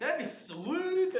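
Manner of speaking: laughing. Real, not acted. Laughing hard.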